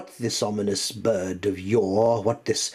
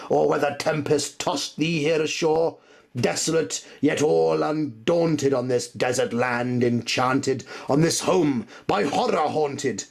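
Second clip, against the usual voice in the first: higher and louder, anguished imploring; raised, frantic plea; desperate pleading; 8 semitones higher, 4 dB louder than usual. Acted. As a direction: beg the demon bird for an answer. Speaker begs the raven.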